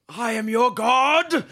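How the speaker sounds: slow, drawn-out commanding god voice; booming fake god. Player posing as a god to islanders, slow and booming. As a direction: proclaim it slowly like a deity. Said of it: "what am I gonna say?".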